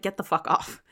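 whispered curse, soft and voiceless; hushed irritated whisper; muttered annoyance. Acted. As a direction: hiss it under your breath. Player's character mutters at spider.

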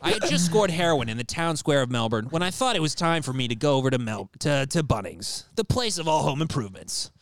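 Anthony Bourdain. Acted. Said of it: "Anthony Bourdain meets Jeffrey Epstein".

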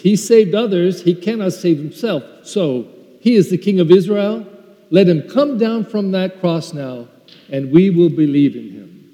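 lightly acted taunting jeer; emphatic mock challenge, mildly acted. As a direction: taunt him with a touch of scorn. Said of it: "they couldn't stop mocking him".

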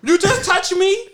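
high, drawn-out put-on offence; mock outrage. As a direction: stretch it out in high pretend indignation. Repeats the offended New York woman.

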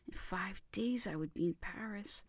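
soft, hushed whisper; whispered yearning; longing whisper. Acted. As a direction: whisper the hope. Pleading to visit sick wife.

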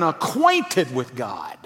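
slow, breathy hush on acquainted; whisper. Real, not acted. Preacher to congregation, hushed unvoiced whisper. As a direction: lean in and whisper it to the room.

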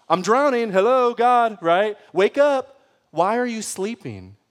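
desperate cry. Acted. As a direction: call out to God as if drowning. Voicing a desperate plea to God.

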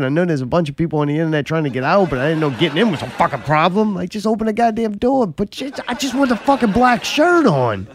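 hurried, fed-up griping; exasperated rant. Real, not acted. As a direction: vent in frustration, pushing the pitch up.

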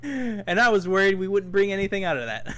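laughing while talking. Real, not acted. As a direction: laugh through the line. Laughs after rant.

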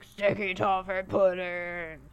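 slow, hammed-up British accent; bad British accent. Diner ordering dessert, poor British accent. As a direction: draw it out in a dodgy British accent. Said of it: "do better with your British accent".

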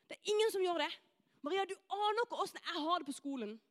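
insistent, piling-up objections in a rush; distressed protest. Acted. Pupil telling Maria she has no idea, protesting. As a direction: push back as a pupil who feels unseen.

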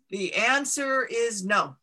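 slow, measured voice of a mountain; a giant stone mountain answering slowly; booming mountain voice. Acted. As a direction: let the mountain pronounce its verdict slowly.

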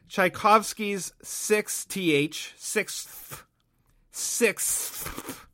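"sixth" slowly, with a long hissed th; deliberate pronunciation. Real, not acted. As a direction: overwork the final th of "sixth". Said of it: "trying to say it intentionally".

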